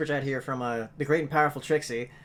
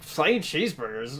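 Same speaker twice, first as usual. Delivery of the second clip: mock disbelief; slower than usual. Friend mimics people's disbelief.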